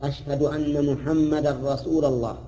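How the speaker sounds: slow, chanted أشهد أن محمدا رسول الله with محمدا stressed; imitating a muezzin. Teacher imitates callers who use the accusative ending. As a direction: chant it out slowly. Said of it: "المؤذنين الذين يقولون".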